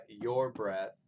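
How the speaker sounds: "your breath" slow and set apart, weight on "breath"; stress on BREATH. Shown as a demonstration. Teacher demonstrating metrical feet, stress on "breath". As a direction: scan "your breath" loudly, beat on "breath". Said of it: "the stress is on the word breath".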